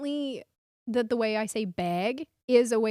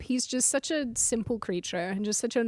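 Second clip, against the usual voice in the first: ordinary talk, nothing marked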